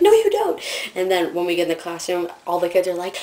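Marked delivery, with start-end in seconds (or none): 0.0-0.6 loud, very high mock scolding; Noelle, mad. Friend refusing a staller's excuse, mock-mad. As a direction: shut down the excuse in a high, exasperated imitation. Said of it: "gets so mad at me when".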